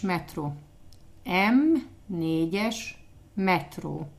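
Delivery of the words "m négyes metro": slow, syllable by syllable. Shown as a demonstration. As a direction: say M négyes slowly for the learner.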